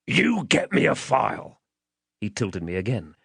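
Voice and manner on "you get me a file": higher, threatening command; menacing man. Acted. Man ordering the child as he tilts him, menacing. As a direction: lean on each demand to frighten the child.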